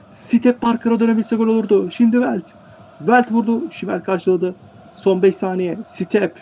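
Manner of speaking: high-pitched, urgent match commentary; excited play-by-play. Real, not acted. Commentator counts down final seconds at three-all, excited play-by-play. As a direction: keep the pitch up as the clock runs out.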